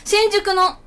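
loud incredulous protest; mock indignant. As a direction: demand an explanation in mock outrage. Complaining about downgrade to cafeteria. (大げさに憤慨して問い詰める)

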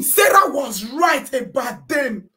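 sarcastic loud quote; slow mocking shout. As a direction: drag it out in scorn. Quoting claim, slow and loud.

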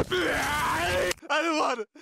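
high, slow distressed whine. Acted. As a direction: whine in disgust. Refuses disgusting diaper.

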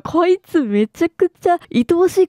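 high, drawn-out fond gushing; gushing affection. Real, not acted. Player smitten with the detective's kindness, gushing affection. Gushing over a lovable game character.

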